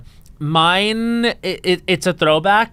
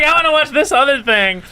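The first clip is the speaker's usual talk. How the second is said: retold with laughter; 11 semitones higher, 4 dB louder than usual. Laughs recounting own teenage choice.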